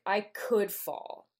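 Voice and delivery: slow quote with weight on "could"; stress on COULD. Retold or imitated. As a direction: lean hard on "could", drawn out slowly. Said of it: "You always emphasize that second syllable".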